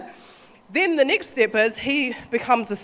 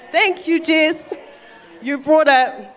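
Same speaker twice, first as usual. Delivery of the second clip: God thanking; 5 semitones higher, 5 dB louder, much slower than usual. Retold or imitated. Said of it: "And he goes".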